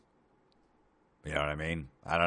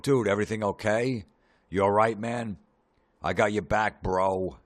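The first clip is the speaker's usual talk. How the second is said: mock concerned buddy; 6 semitones higher, 8 dB louder than usual. Imagined concerned Facebook comments.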